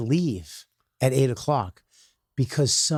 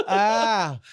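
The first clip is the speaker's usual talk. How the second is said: higher-pitched acted yelp of fright; startled cry; 5 semitones higher than usual. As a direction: cry out as if grabbed from behind. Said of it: "Like this".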